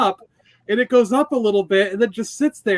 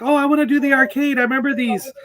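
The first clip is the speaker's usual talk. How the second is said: higher, quick retold enthusiasm; eager mom; 4 semitones higher, faster than usual. Son imitates mom spotting the arcade machines, mildly excited. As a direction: imitate mom keen to have a go.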